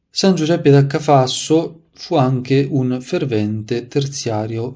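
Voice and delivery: measured, projected read-aloud of a saint's life; story narration. A narrator's reading. Preacher reading saints' anecdotes to listeners, devotional narration. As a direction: read it out clearly, phrase by phrase.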